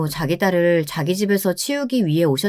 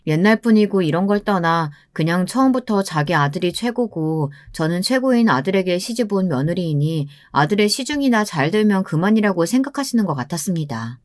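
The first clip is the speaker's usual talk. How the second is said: usual speaking voice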